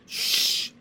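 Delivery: whispered hush; soft sleepy shush. Acted. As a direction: hush them softly, breath only. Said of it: "said Miss Binny in a soft, quiet, sleepy voice".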